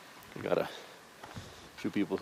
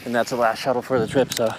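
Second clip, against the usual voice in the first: raised outdoor voice; 3 semitones higher, 8 dB louder than usual. Real, not acted. Shouting over wind after ride.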